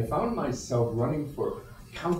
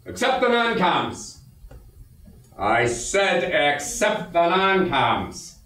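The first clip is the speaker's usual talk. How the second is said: repeated order; 5 semitones higher, much slower than usual. Acted. Officer repeats order to troops.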